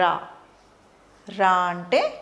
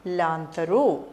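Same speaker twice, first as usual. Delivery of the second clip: slow teacher model; 3 semitones lower, much slower than usual. Shown as a demonstration. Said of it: "ఏంటి?".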